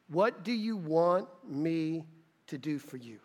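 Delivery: slow gentle question. Shown as a demonstration. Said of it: "preacher repeats slowly".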